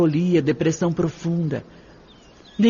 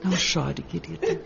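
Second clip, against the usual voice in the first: soft, gentle reassurance; quietly consoling a crying girl; tender comfort; 5 dB quieter than usual. Acted. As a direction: soothe her softly.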